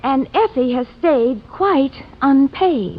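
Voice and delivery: slow, measured verse ending; poem punchline. Acted. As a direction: draw out the rhyme as a punchline. Delivers her poem's punchline.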